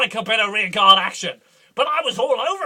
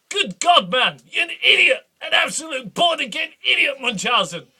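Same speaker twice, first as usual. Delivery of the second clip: mock angry shout; 5 semitones higher, 4 dB louder than usual. Duke rants at Munchausen.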